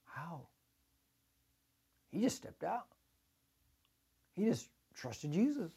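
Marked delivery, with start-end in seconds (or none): 0.0-0.5 hesitant. Retold or imitated. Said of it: "stand there in the boat and say".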